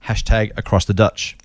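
Kiwi-style "Dutch" with the short i pushed to a schwa, read slowly; Kiwi accent on Dutch. Shown as a demonstration. Host reading a listener's sign-off in a Kiwi accent. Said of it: "Do you like the way I did the Dutch thing?".

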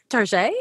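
Tarjay said as tar-ZHAY, mock French; Target pronounced Tarjay. Shown as a demonstration. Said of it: "that's how I say Tarjay".

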